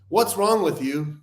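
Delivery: slow, pointed "What's wrong with you?" with a blaming edge; accusing. Shown as a demonstration. Showing how a blunt question puts a friend on the defensive, accusing. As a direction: make "What's wrong with you?" sound like an attack. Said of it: "comes off like an assassination".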